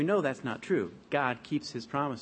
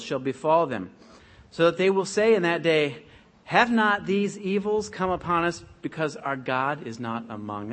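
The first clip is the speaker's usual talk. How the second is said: louder, declaiming Bible reading; scripture reading; 4 dB louder than usual. Acted. Preacher reads Deuteronomy to the congregation, declaiming. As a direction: read the Lord's warning with weight.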